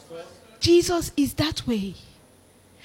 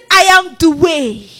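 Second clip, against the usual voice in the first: loud, drawn-out "the way", firmly stressed; 3 semitones higher, 10 dB louder, slower than usual. Shown as a demonstration. Preacher repeating Jesus' claim against other ways, stressing "the". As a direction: land hard and slowly on "the way". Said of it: "the definite article".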